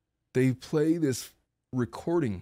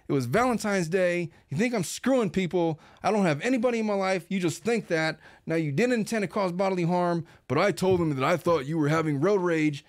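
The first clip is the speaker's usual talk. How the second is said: Cruella de Vil voice; 3 semitones higher than usual. Retold or imitated. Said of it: "evil Cruella de Vil voice".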